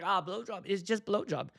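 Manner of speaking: imitating a German friend; lightly put-on German accent; matter-of-fact mock German accent. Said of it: "he's got the German accent".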